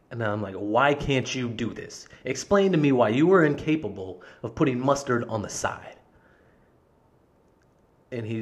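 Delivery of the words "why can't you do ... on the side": stretched-out, exasperated questioning; retold exasperation, demanding an explanation. Customer arguing with manager over mustard, exasperated.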